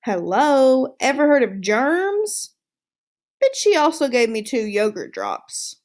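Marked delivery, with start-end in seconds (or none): 0.0-2.5 sarcastic hello, mildly indignant; mock-disgusted hamster asking about germs. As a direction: roll your eyes at the girl. Hamster mocking the kiss.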